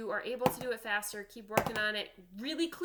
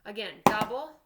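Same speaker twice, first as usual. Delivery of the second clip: loud counted drum call; loud called sticking; 8 dB louder than usual. Shown as a demonstration. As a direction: call each stroke out loud, like a drum teacher. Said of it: "Let's do it slowly first".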